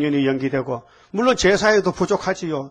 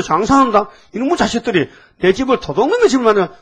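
righteous anger; 5 semitones higher, 4 dB louder than usual. Retold or imitated. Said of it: "예수님도 의분 냈거든요".

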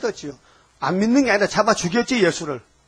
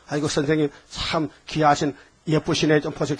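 soft, sweet praise; flattering softly; 3 semitones lower, 4 dB quieter than usual. Shown as a demonstration. Preacher shows the polite way to invite someone, soft and flattering. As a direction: coax them with quiet compliments. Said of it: "이렇게 칭찬해줘야 되죠".

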